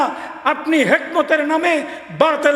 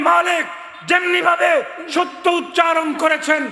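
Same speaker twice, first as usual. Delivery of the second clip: fiery preaching shout; 4 semitones higher than usual. Real, not acted. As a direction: build the list into a preacher's roar. Preacher climax, listing imams. (উচ্চস্বরে জ্বালাময়ী বক্তৃতা)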